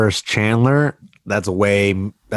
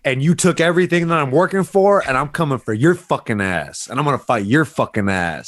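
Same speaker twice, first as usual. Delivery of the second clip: trash talk callout; 3 semitones higher than usual. Pretend. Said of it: "Excite me with your call out".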